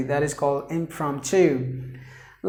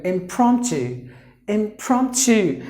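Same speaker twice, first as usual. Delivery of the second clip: "Impromptu" with PROM given more weight; stress on second syllable; 3 semitones higher, slower than usual. Shown as a demonstration. Teacher showing which syllable gets volume, stressed PROM. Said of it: "second syllable is given more volume".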